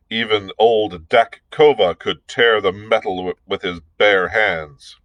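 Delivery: scornful chieftain's voice; taunting warrior. Acted. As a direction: sneer at the weakling ruler. Dak Kova taunts the ruler.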